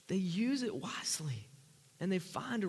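hushed, unvoiced aside; whisper. Real, not acted. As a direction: lean in and whisper it. Preacher drops to a hush.

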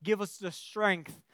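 earnest praying voice; prayer. Acted. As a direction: pray it over the congregation. Leads closing prayer.

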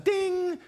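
high bright ping of an email alert; notification ding. Retold or imitated. Pastor imitating the phone ping during rest, high ding. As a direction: chirp it like the phone just buzzed.

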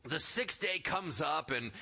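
normal talking voice

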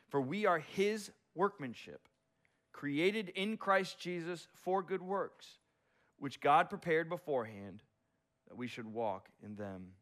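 slow, deliberate reading; solemn scripture reading. Acted. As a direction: let each phrase land slowly. Reading Ephesians passage.

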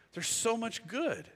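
almost breaking with feeling; deeply moved. Shown as a demonstration. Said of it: "repeated for emphasis".

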